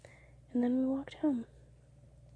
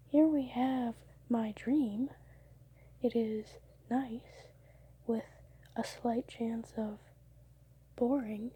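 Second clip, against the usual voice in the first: reporter voice; 3 dB louder than usual. Pretend. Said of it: "Why do I find myself speaking like a, what is it, reporter?".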